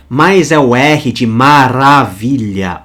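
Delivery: maravilha with the R rolled, slow and drawn out. Shown as a demonstration. Teacher demonstrates the rolled Greek R, slow rolled R. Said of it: "o R mais enrolado e não o som do R".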